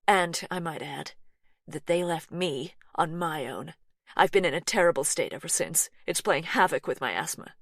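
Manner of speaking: lightly voiced American woman getting worked up; Laurie's American twang, complaining to Alice; American twang, fretful. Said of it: "softly spoken American twang".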